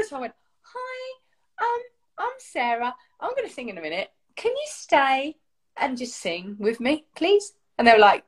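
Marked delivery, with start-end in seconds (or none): 0.6-7.5 sheepish, slowed-down asking; uncomfortable request. Retold or imitated. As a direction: act out an awkward, timid approach. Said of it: "I was the one that was uncomfortable".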